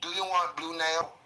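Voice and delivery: imitated Vietnamese accent; lightly caricatured Vietnamese accent; Asian accent. Shown as a demonstration. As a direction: put on a mock Vietnamese nail-salon accent. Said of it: "my Asian accent is A one".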